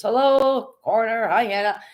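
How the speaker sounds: light greeting quote. Retold or imitated. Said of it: "Hannah says".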